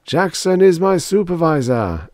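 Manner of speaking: high intoned congregational response; echoing mass. A narrator's reading. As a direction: echo it back as a worshipping crowd. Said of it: "echoed the mass".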